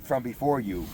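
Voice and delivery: proclaiming scripture to the congregation; scripture reading. Acted. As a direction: read the passage out like from the pulpit. Reads scripture aloud.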